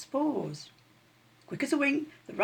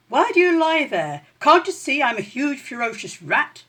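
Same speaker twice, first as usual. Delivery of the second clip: higher, louder puffed-up rat voice; boastful rat; 6 semitones higher, 8 dB louder than usual. A narrator's reading. Rat showing off to the sleepy kitten. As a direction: brag to the lazy kitten. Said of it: "the rat glanced up ... and said".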